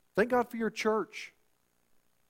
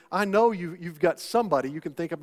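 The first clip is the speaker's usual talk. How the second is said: ordinary talk, nothing marked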